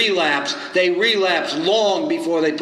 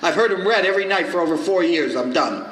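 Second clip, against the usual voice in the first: indignant; 3 semitones higher than usual. Retold or imitated. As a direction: play up the affronted newcomer. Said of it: "I got indignant".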